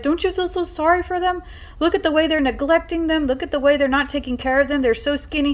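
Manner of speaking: a hint of a small boy begging you to feel sorry; lightly voiced little boy. Little boy voiced pitying the dogs.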